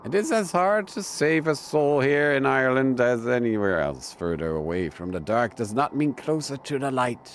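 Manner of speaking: lightly voiced Irish priest, grave and measured; solemn priest. Priest telling the detective about his scars, lightly voiced and grave.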